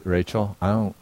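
soft, gentle reassurance; a father forgiving his daughter; tender. Retold or imitated. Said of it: "I said".

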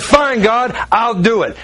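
grudging, high-pitched retold surrender; hard attitude. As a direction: give in huffily, making your annoyance known. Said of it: "This is a hard attitude".

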